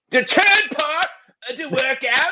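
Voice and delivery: put-on shouting in poor British accent. Pitching a prestige workout bit: shouting in a strong bad British accent.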